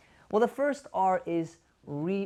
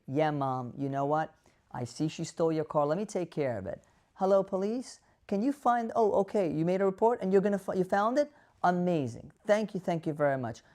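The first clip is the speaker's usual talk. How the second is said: validating calm. Shown as a demonstration.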